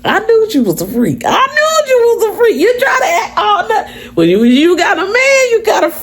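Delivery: high shouted laughing tease; teasing coworker. Retold or imitated. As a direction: crack up while calling her out. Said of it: "He said".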